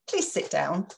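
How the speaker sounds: calm courteous please; a friendly professional ask; polite request. Shown as a demonstration. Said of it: "in business, we generally need".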